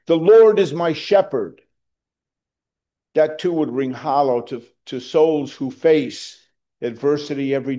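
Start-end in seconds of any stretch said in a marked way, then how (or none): 0.1-1.6 declared from heaven. Pretend. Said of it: "declared out of heaven".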